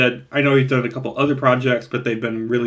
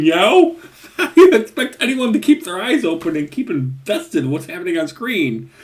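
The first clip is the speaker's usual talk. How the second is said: louder, higher, laughing through the words; laughing rant; 6 semitones higher, 3 dB louder than usual. Real, not acted. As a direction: rant half-laughing in disbelief. Ranting about shaky cam.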